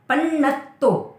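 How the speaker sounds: पन्नत्तो slowly with both न and त doubled; doubled consonants. Shown as a demonstration. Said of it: "न भी double है, तो भी डबल है". (पन्नत्तो में न और त दोनों डबल, धीरे)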